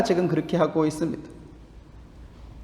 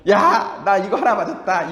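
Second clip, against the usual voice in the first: put-on gleeful kid; 4 semitones higher than usual. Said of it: "되게 좋아하는 거죠".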